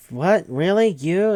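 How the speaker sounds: high, loud imitation of disbelief; incredulous squeal of questions, hammed-up; mock astonishment. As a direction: act out being stunned, each word swooping up. Retold reaction to Alex's reveal.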